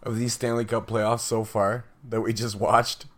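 hoarse, worn-out voice; raspy whisper. Real, not acted. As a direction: talk through a voice that's nearly gone. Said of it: "I have no voice left".

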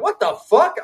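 high, stunned cry of disbelief; shocked outburst. Retold or imitated. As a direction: yelp it out in disbelief. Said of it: "I'm like".

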